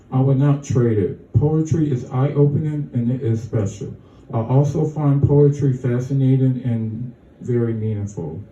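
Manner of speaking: even, measured read of a personal statement; steady reading, phrase by phrase; reading a statement aloud. Acted. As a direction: read your written words out sincerely. Reads written statement aloud.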